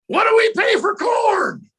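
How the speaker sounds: slow, high, loud shout; drawn-out shouted chant; coach's cheer call. Retold or imitated. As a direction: holler the question to the team. Coach leading a sideline cheer.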